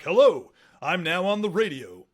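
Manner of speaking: loud, booming announcer parody; mock radio voice. Mocking the stiff radio voice she learned to avoid, booming announcer. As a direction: ham up a pompous radio host. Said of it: "the radio voice".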